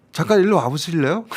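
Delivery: put-on Korean with a light Korean-Chinese accent. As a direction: mimic a Joseonjok caller's Korean accent. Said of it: "발음 조선족인데?".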